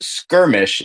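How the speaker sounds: "skirmish" with a hard k and no w; standard pronunciation. Shown as a demonstration. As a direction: say "skirmish" as skur-mish. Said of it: "just know it's pronounced".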